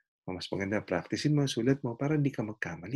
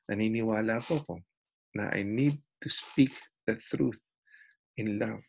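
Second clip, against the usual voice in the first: gentle Christian. Retold or imitated. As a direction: answer the driver humbly and kindly. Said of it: "Ang sabi niya".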